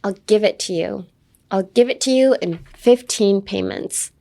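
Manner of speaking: "give it" carries the emphasis; stress on GIVE. Shown as a demonstration. Teacher repeating the line for learners, stress on give. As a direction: punch "give", let the rest follow. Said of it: "Emphasis on the give it".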